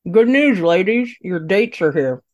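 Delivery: talking with a pen held in lips. Shown as a demonstration. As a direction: hold a pen between the lips and speak. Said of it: "try again. Give it another take".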